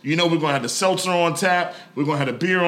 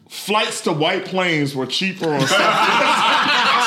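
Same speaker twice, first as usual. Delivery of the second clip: laughing read; much slower than usual. Real, not acted. Reading a viewer's joke comment.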